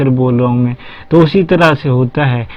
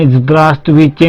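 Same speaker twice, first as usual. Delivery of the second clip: slow greeting; 4 dB louder, much slower than usual. Shown as a demonstration. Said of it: "अगर आपने".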